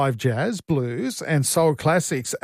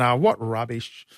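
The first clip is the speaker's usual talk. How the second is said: slow, lower scoffing brush-off; mocking dismissal; 5 semitones lower than usual. Host retelling scoffing at his wife's magnesium, mock dismissive. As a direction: scoff at it slowly like it's nonsense. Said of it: "I was mocking my wife".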